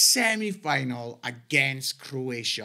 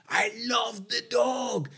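excited exclamation; 5 semitones higher, slower than usual. Real, not acted. Fond cry about childhood cartoon.

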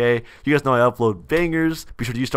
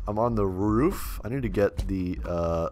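whispering; 6 semitones lower, 11 dB quieter than usual. Real, not acted. Sneaking in game, hushed.

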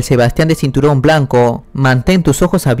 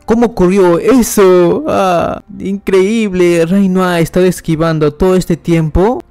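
high-pitched amazed onlooker; acted disbelief, held high; astonished; 5 semitones higher than usual. Espectadores atónitos ante los cortes. (asombro agudo)

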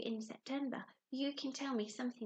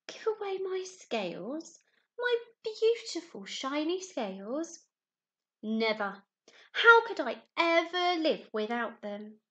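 shocked rainbow fish; 6 dB louder, slower than usual. Acted.

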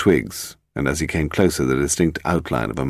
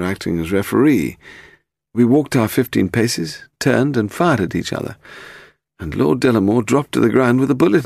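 higher-pitched, earnest little man; confessing Willie; 5 semitones higher than usual. Acted. Suspect telling policeman about the duel, high earnest confession. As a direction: recount it in a raised character voice.

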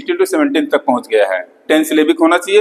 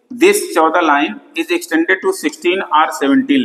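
slow dictation; much slower than usual. Shown as a demonstration. Teacher dictating to students taking notes, very slow. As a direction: spell it out word by word, very slowly.

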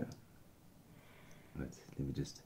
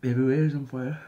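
loud outburst; 9 semitones higher, 10 dB louder than usual. Real, not acted. Chili burning his mouth.

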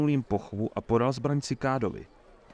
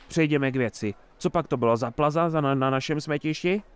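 indignant. Acted. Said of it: "pokračoval Herbold pobouřeně".

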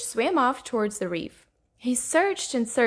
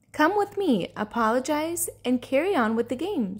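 encouraging, starting higher then settling; warm; 3 semitones higher than usual. Acted. Redfin urging Rainbow Fish to apologize, warmly. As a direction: coax with mild warmth. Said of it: "said Redfin warmly".

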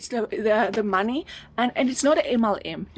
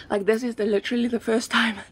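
out of breath. Real, not acted. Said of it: "actually I'm out of breath now".

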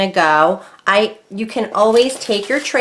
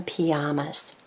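Spanish accent; 4 semitones lower, 7 dB quieter than usual. Shown as a demonstration. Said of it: "That's like my Spanish accent".

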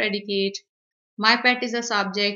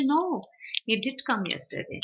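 "No" pitched up, stressing "did" in rebuttal; emphatic contradiction; 3 semitones higher than usual. Shown as a demonstration. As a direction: contradict firmly, leaning on "did". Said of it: "this is where you stress upon something".

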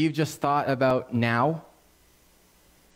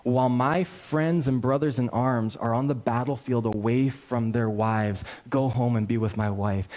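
loyal soldier's refusal; 2 semitones lower than usual. Retold or imitated. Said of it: "And Uriah says".

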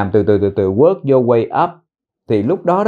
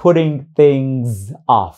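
slow demo; slower than usual. Shown as a demonstration. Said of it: "thêm chữ things vào trước chữ off".

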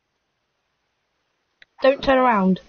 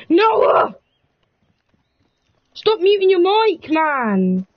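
higher-pitched complaint to a friend; exasperated call; 4 semitones higher, much slower than usual. Real, not acted. Player telling friend off for muting, exasperated call. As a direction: call out in annoyance, pitch raised. Calling friend who muted mic.

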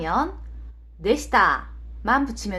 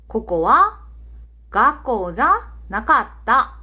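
slow, word-by-word Japanese example; careful teacher's demonstration, drawn out; slow model sentence; 3 dB louder, much slower than usual. Shown as a demonstration. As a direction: model it slowly for learners, phrase by phrase.

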